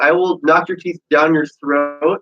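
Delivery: slow, menacing, every word spelled out; mock tough fighter. Retelling Ronda's threat, slow and menacing. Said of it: "almost U F C Ronda Rousey, where she's like".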